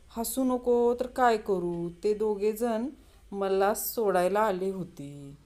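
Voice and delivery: lightly voiced drunk, stretching the words; laughing drunkard. Drunk left on the platform explains to bystanders, drawn-out voice. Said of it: "त्यावर तो म्हणतो".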